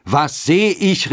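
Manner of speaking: drawn-out, very high exclamation; high, stretched amazed question; astonished cry. A narrator's reading. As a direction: cry out slowly in amazement, like the fathers. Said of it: "riefen die Väter".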